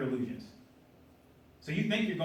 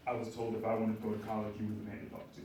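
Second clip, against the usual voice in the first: imitating a slow, lower-pitched cocky guy; slow-talking cocky young man; 5 semitones lower, 5 dB quieter than usual. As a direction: drag the words out like the young man did. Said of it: "I'm gonna try to do his voice. He talked like this, pretty slow".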